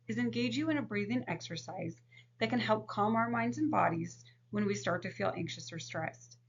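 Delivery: gentle, soothing therapist talking to a client; calm counselor voice. Shown as a demonstration. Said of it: "here is a demonstration of box breathing".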